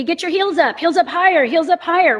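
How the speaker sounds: high, repeated coaching cue; mock coach cue. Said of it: "calf raise can be".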